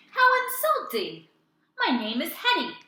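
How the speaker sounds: very high, loud offended cry; hammed-up furious monster; angry. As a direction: fling it back in outrage. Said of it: "with the angriest growl".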